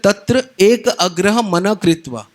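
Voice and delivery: slow, measured Sanskrit recitation; scripture recitation. Shown as a demonstration. Preacher reciting the Gita verse to the congregation, slow and measured. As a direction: chant the verse deliberately. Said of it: "भगवान बोलते हैं".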